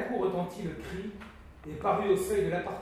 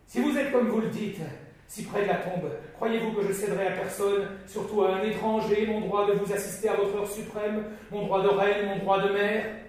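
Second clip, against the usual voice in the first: indignant protest; 4 semitones higher, 6 dB louder than usual. A narrator's reading. Queen mother defies dying son.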